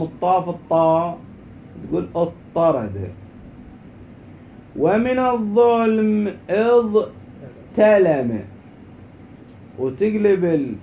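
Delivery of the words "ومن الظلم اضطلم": slow, raised teaching voice; lesson dictation. Shown as a demonstration. Teacher dictating a grammar rule to students, slow dictation. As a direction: sound out each word slowly and higher.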